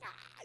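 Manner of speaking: high, soft mimicked squeal of laughter; mock laughing squeal; imitated laughing squeal. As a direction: imitate a wife shrieking with laughter. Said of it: "She's laughing".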